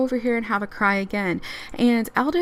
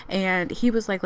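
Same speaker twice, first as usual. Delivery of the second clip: usual speaking voice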